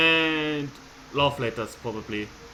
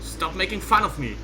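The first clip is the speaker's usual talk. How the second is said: sister annoyed; 4 semitones higher than usual. Acted. Sister thinking her brother mocks her, indignant. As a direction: snap back at her brother.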